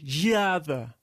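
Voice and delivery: "geada" with its E said as an I; E lido como I. Shown as a demonstration. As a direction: say "geada" as if spelt with I. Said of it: "lê-se como se fosse um I". ("geada" com o E lido como I)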